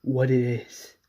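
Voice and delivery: hushed, desperate plea; a hushed plea for the truth; pleading whisper. Retold or imitated. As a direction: whisper it, begging. Pleading quote in retold scene.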